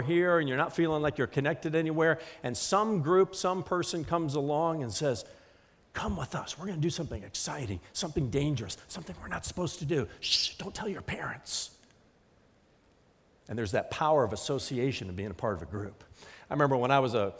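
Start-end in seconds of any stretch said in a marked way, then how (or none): 5.9-11.7 put-on a tempter murmuring to a lonely kid; sly hushed enticement. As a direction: coax them in softly like a secret. Voicing a tempter to a loner.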